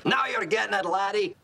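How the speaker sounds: put-on Scottish brogue; Scottish accent. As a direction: answer in a playful Scottish accent. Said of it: "in a Scottish accent".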